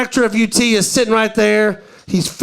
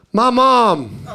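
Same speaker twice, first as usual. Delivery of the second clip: laughing answer; 2 semitones higher than usual. Retold or imitated. Student answer through laughter.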